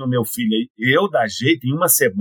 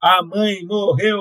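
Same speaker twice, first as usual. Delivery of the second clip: playful, half-kidding, light, high joking tone; 6 semitones higher than usual. Asked why she says it that way, repeating her line, playful joking tone. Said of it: "eu dou esse tom assim de brincadeira".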